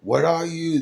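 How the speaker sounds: high, frightened cry; frightened scream. Acted. Terrified passengers scream at the stranger, high and scared. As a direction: shriek it in terror. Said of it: "they screamed".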